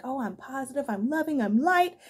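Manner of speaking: mock high vibing. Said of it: "came off as high vibing".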